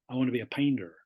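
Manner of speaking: PAINTER with the T nearly gone; American dropped T. Shown as a demonstration. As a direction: soften the T in "painter" American-style. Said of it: "it's kind of dropped the T".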